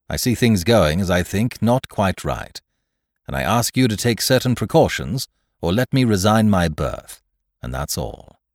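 firm, emphatic self-justification; measured but insistent captain; lightly voiced blunt captain. Captain answering the charge of fearing mutiny, lightly voiced and firm.

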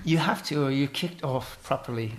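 lightly put-on English accent. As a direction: play a mock-fancy English game host. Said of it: "answer in an English accent".

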